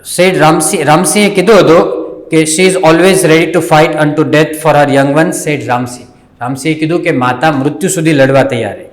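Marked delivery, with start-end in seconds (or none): 2.4-6.1 slow, carefully paced reading aloud for learners; slow story reading. Shown as a demonstration. Teacher reading the story slowly to the students. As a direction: read each word out slowly and clearly.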